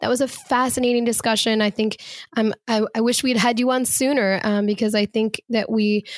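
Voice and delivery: hoarse, worn-out voice; talking through a lost voice. Real, not acted. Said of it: "I apologize 'cause I have no voice".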